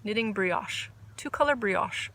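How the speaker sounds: brioche said as bree-OSH, open ah vowel; brioche like Mina. Shown as a demonstration. Trying out Mina's fancy brioche for viewers. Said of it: "I love how she says it".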